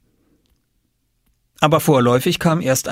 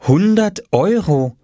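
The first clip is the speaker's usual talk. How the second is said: higher, slow and drawn out; reading a sign aloud; 9 semitones higher, 3 dB louder, slower than usual. A narrator's reading. Mother reads her son's price sign, amazed reading aloud. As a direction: read it out word by word with wonder. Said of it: "las Mama auf dem kleinen Papierschild".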